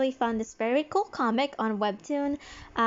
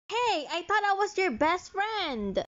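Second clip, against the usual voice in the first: jealous protest; 6 semitones higher than usual. Acted. Jealous friend objects.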